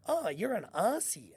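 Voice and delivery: imitated American saying "Aussie" with a hissed s; slow American "Aussie", rhyming with "glassy" or "bossy"; American accent. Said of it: "Americans love Aussies".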